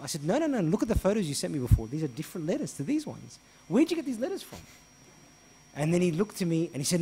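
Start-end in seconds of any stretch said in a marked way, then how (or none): 0.2-4.6 loud, higher, accusing; heated demand. Retold or imitated. Priest confronting the man about new letters, loud and high. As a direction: catch him out.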